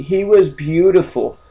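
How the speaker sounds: a lightly voiced, slow mock heckler defending Hitler; a hint of a prissy objector voice. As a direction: play the imagined critic, drawn out. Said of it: "No, he was fucking ugly".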